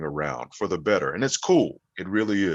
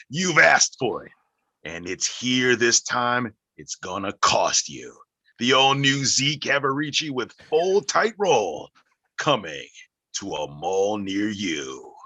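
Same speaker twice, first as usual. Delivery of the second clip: movie trailer voice; 3 semitones higher, 3 dB louder than usual. Pretend. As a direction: sell it like a blockbuster trailer. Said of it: "your movie trailer voice".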